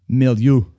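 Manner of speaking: "milieu" said clearly, loud, with a light French touch; word of the day. Shown as a demonstration. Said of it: "say it with a slight French accent".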